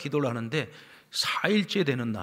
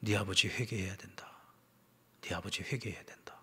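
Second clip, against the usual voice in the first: lightly voiced God, low and hushed; soft, solemn divine pronouncement; 5 semitones lower, 6 dB quieter than usual. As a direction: deliver it as a quiet, lowered command from God. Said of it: "하나님께서 음성을 들려주시는데".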